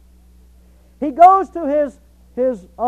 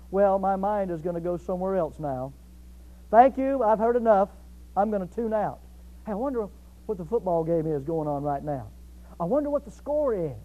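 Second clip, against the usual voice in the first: mildly absent, softer inner voice; mind wandering off; 4 semitones lower, 6 dB quieter than usual. Acted. Imagined churchgoer tuning out the sermon, softly absent-minded. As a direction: drift off into idle private musing.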